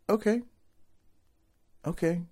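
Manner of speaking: lightly acted calm acceptance; super calm. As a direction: imitate a calm, unruffled reply. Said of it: "Like, super calm".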